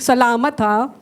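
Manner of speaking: sarcastic thanks with a rising lilt. Shown as a demonstration. Preacher shows congregation how thanks turns sour, sarcastic. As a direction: say thank you without meaning it. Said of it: "parang sarcastic na yung dating".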